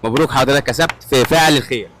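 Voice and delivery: loud, excited winner announcement; booming prize announcer. Acted. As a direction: call out the win like a game-show host. Announcing street quiz winner.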